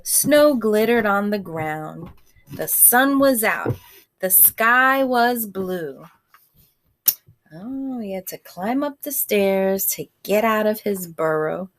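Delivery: gentle read-aloud voice; storybook reading to a class; story narration. A narrator's reading. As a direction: read it like a bedtime story for children. Reads picture book to kids.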